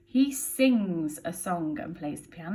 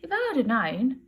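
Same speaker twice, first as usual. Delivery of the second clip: apologetic Betty. Acted. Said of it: "she says".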